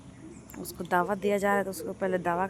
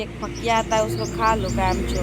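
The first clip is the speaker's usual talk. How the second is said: scolding; 2 semitones higher, 7 dB louder than usual. Retold or imitated. Scolding cousin to take medicine.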